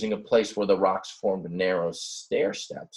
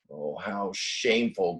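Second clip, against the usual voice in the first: groaned. Acted. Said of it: "groaned the little bighorn".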